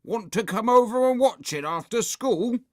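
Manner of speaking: high, loud eager invitation; excited boy. A narrator's reading. Boy inviting friends to watch DVD, excited. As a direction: invite your mate, bursting with it.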